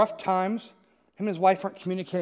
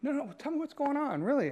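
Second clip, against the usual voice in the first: higher, softer coaxing; gently insisting; 7 semitones higher, 5 dB quieter than usual. Retold or imitated. Friend catching their eye to get the truth, gently insistent. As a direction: press gently for the real answer. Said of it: "catch their eye and say".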